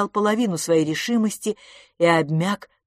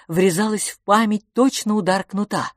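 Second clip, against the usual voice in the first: ordinary delivery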